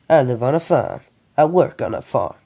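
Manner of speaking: light, amateur Texan twang; Texas accent. Acted. Sam tells of his farm life, in a light Texas accent. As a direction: try a mild Texas farm-boy accent. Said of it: "doing a Texas accent as much as he can".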